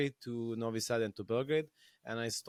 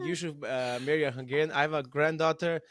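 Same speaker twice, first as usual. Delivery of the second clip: put-on Hungarian accent; 2 semitones higher, 3 dB louder than usual. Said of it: "with a thick Hungarian accent".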